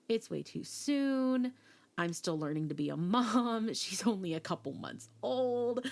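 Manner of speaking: slowed-down, stunned denial; overwhelmed new mom pleading it's too soon; slow disbelieving panic. Retold or imitated. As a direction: drag out each word as if it can't be true. Panicked about a new pregnancy.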